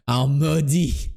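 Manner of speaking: slow imitated Québécois drawl; comic put-on Québécois accent. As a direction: broaden the vowels like a Québécois. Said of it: "quand tu imites les Québécois".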